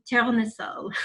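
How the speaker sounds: lightly imitating a French accent on "tournesol"; a hint of a French accent on "tournesol". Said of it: "with a beautiful French accent that I will butcher".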